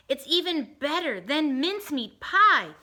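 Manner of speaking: happy sigh. Acted. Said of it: "with a happy sigh".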